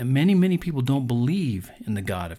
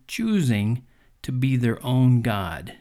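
choosing leaned on, slowed and weighted; stress on choosing; slower than usual. Shown as a demonstration. Preacher stressing choosing to his listeners. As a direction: dwell on the word choosing to press it home. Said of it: "and I emphasize that word".

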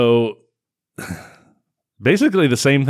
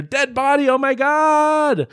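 high mock shock; 3 dB louder, slower than usual. Mocking shocked heroine.

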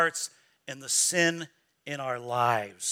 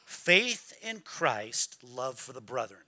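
quiet take; 6 semitones lower, 6 dB quieter, slower than usual. Shown as a demonstration. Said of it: "What is the key?".

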